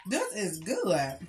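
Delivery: eating while speaking; talking while chewing. Real, not acted. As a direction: mouth partly full. Seen 0: Woman spoons macaroni from cup, mouth working between words while speaking.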